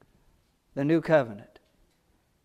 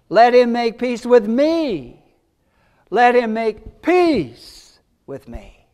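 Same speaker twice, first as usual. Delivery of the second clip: slow emphasis; 4 semitones higher, 4 dB louder, slower than usual. Real, not acted. Repeats the invitation for emphasis.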